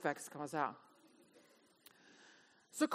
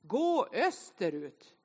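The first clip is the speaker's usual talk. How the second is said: slowly drawn-out imitated GPS instructions; navigation voice; 2 semitones lower, slower than usual. Phone's map app directing a lost driver, mock navigation voice. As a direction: mimic a navigation voice, word by word. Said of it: "då säger den rösten".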